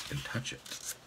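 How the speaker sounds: barely voiced, very soft storytelling; hushed narration. A narrator's reading. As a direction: drop to a near-whisper. Narrator hushes at wistful climax.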